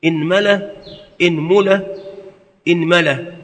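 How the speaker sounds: إنملة with kasra on the hamza, mim said first with a, then u, then i; إنملة said as inmala, inmula, inmila; vowel variants. Shown as a demonstration. Teacher demonstrating the kasra forms, careful articulation. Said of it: "وفي الميم ثلاثة أوجه".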